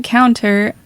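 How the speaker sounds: "counter" with the ter fully sounded; over-enunciated ter. Real, not acted. Host telling the candle story, "counter" with enunciated ter. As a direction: carefully enunciate the end of "counter". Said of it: "You're enunciating the ter".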